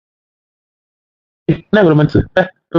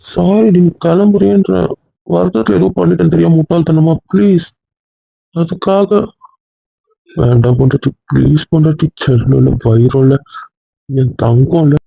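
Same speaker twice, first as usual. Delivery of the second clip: pleading; 3 semitones higher than usual. Real, not acted. Husband apologizing, begging wife.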